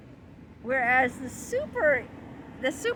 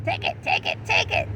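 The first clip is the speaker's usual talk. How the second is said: much lower, growling tempter; deep id voice; 3 dB louder, faster than usual. Acted. The id tempting the kid, much lower and louder. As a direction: drag the words down like a devil. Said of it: "it's saying".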